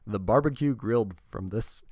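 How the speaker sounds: trying to read through the giggles; a reading that collapses into laughter; breaking into laughter. Real, not acted. Host retries the card text, breaking into laughter. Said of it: "I'm laughing".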